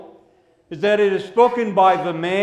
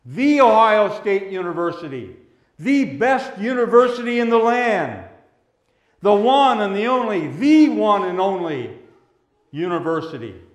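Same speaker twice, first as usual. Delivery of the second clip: mock bragging. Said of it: "they're bragging about being Buckeyes".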